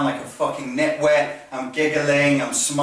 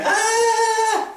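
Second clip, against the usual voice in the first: very high, sustained mock squeal; flappy, feeble falsetto cry; silly squeal. Instructor mocking a flappy slappy trainee, silly squeal. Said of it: "the flappy slappy thing and going".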